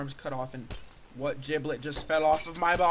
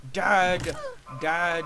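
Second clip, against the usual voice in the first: son calling dad; 6 dB louder than usual. Acted.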